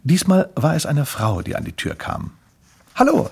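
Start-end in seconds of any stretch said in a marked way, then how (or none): 2.9-3.3 high-pitched greeting; woman's voice. Acted. Woman opens the door to Grimpel, high-voiced hello.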